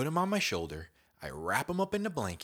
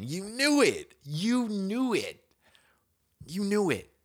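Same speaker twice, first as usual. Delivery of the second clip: high, loud, slow knowing groan; louder and higher in comic despair; exasperated outcry; 10 semitones higher, 7 dB louder, slower than usual. Real, not acted. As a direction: wail it in comic defeat. Exasperated repeated outburst.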